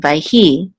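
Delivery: vayhi stressed on the final hi; stress on last syllable. Shown as a demonstration. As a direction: say vayhi as vay-HI. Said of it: "The accent is on the last syllable".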